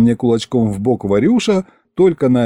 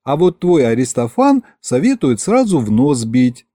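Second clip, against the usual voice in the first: lightly voiced teasing wife; 3 semitones higher than usual.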